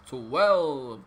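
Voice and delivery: loud announcement. Acted. Numbered absurd decrees, loud call. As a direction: boom the number out.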